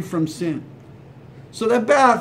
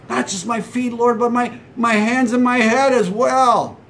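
lightly voiced pleading, a bit higher; a hint of Peter begging, raised pitch; 4 semitones higher than usual. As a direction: plead earnestly for more. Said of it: "he now begs Jesus for a bath".

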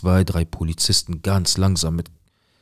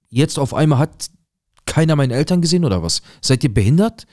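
panicked yelling; 5 semitones higher than usual. Retold or imitated. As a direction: scream at them, desperate and losing control. Retold panic shouting at restaurant staff. (verzweifelt wütendes Schreien, immer höher und lauter)

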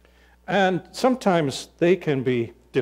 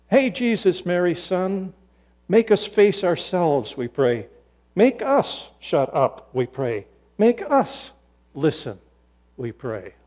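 raised opening, dropping on each refrain; prayerful plea; 4 semitones higher than usual. Acted. Preacher reading moderator's prayer to Jesus, prayerful plea.

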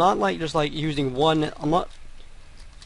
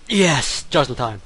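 triumphant; 4 dB louder than usual. Real, not acted. Gamer clears the tricky sequence, triumphant. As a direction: celebrate a clutch success. Game success after tense sequence.

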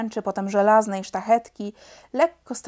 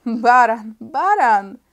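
louder, taunting name-calling; jeering shout; 9 dB louder, much slower than usual. Acted. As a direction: fling the insult twice. Heckler insults Felek.

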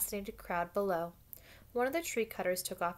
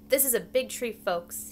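loud, raised address to a crowd; megaphone announcement; 4 semitones higher, 6 dB louder than usual. A narrator's reading. Worker warning a crowd about the big tree, megaphone announcement. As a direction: call it out as if through a megaphone. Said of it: "Dave had a megaphone".

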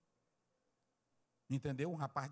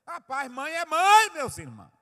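preaching shout; 12 semitones higher, 14 dB louder than usual. Real, not acted. Preacher exclaims to the brothers about mothers, shouting. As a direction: shout it out, stretching the words.

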